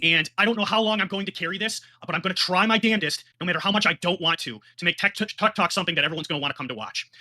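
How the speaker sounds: emphatic, heated vow; manic, angry. Real, not acted. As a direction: declare it while angry and worked up. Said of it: "I am angry".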